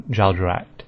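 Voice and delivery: slow Jaldracht ending in a hard "act"; "Jaldracht" with a k before the final t; official pronunciation. Shown as a demonstration. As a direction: say Jaldracht slowly as "jal-jo-act". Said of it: "is act rather than acht".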